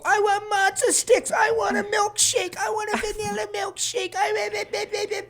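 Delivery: very high, drawn-out squealing kid imitation; mock the kids' shrieked demands in a squeal; screaming kids. Kids demanding food from the back seat, mock screaming. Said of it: "screaming all around me from every angle".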